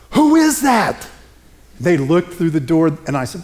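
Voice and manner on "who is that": put-on much higher and louder, a curious little girl. Little girl peering in the door, higher and louder. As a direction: pitch up like a curious young child.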